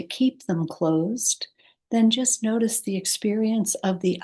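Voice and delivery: calm, unhurried guidance with long pauses; guided meditation. Acted. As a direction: ease the listener toward sleep, pausing between phrases. Leads a meditation.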